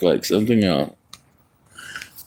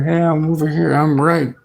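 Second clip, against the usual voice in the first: voicing the cat; 6 semitones higher than usual. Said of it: "she literally meowing and making sure".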